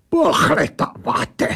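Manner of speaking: put-on indignant German-accented creature; snapped echo. A narrator's reading. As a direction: throw the word back, offended. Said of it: "vybafla ta věc".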